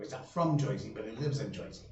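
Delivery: lightly put-on Jersey accent. Shown as a demonstration. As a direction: say it with a Jersey "Joisey". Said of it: "that's my best Jersey accent".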